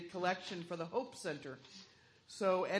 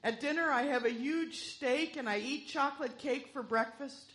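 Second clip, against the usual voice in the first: put-on weak old man voice; 3 semitones higher than usual. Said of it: "said in a weak voice".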